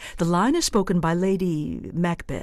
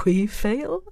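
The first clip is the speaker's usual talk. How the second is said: cavalier; 3 semitones higher than usual. Shown as a demonstration. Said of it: "maybe cavalier".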